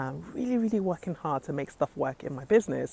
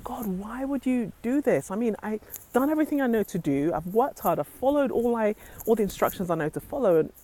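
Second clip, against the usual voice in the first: raised, pleading cry to God; retold upset plea; 5 semitones higher than usual. Telling how she cried out to God, upset and angry. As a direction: vent frustration upward, mildly reenacted. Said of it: "I was so upset and angry".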